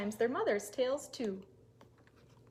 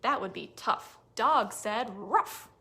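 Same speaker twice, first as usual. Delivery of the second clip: dog's reply; 6 dB louder, slower than usual. Acted. Dog answers.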